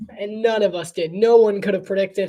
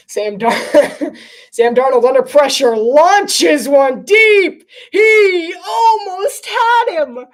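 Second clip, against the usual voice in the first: louder, higher, slow rising shout; excited play call; 8 semitones higher, 9 dB louder, slower than usual. Real, not acted. Live deep throw, excited call.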